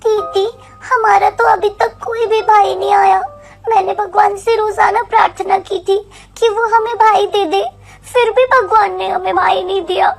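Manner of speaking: mildly downcast little sister; understated disappointed plea; sad child. Acted. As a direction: complain sorrowfully to your big sister. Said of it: "Renu काफी ज्यादा उदास हो जाती है".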